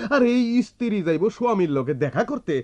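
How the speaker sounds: high, heated outrage; indignant. Acted. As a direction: scoff at the guard's nerve. Brother indignant at guard. (উঁচু গলায় ক্ষুব্ধ তাচ্ছিল্য)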